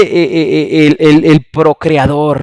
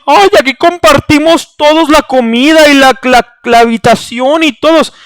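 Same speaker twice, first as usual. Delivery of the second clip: higher, lightly mocking sweet voice; mock sugary church voice; 7 semitones higher than usual. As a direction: parody a fake warm welcome. Mocking the church's fake welcome. (voz melosa y burlona de la iglesia)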